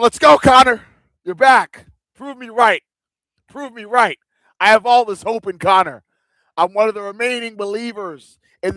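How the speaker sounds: rally for the fighter; excited cheering. Real, not acted. Cheering Connor on before fight.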